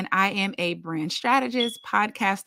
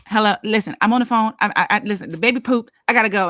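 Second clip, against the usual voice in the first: flustered; 6 dB louder, much faster than usual. Retold or imitated. Flustered mom on phone.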